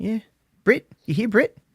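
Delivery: put-on New Zealand accent. Doing a Kiwi accent after saying it is easier than Australian: put-on Kiwi accent. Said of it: "a Kiwi".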